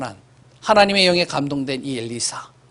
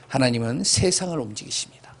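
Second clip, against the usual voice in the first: whispered declaration; 4 dB quieter than usual. Real, not acted. Preacher drops to whisper.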